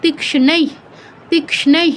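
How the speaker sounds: তীক্ষ্ণৈ said carefully with a drawn-out ending; visarga pronunciation demo. Shown as a demonstration. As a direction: enunciate তীক্ষ্ণৈ slowly, syllable by syllable. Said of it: "এরকম". (তীক্ষ্ণৈ টেনে স্পষ্ট উচ্চারণে)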